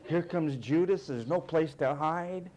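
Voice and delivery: hammed-up panic building to a loud cry; mock panic. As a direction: play a frantic Jesus seeing the soldiers come. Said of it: "What if Jesus would have said".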